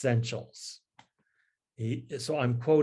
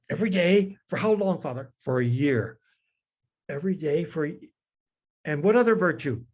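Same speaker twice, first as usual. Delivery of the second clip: much higher, flustered priest's voice; worked up; 4 semitones higher, 4 dB louder, faster than usual. Retold or imitated. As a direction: play the priest getting all worked up. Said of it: "the priest keeps pressing".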